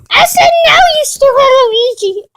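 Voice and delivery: high furious yell, slowing on the insult; shrieking at Luigi in rage; angry shout. Acted. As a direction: scream it at him. Toy cat yelling at Luigi.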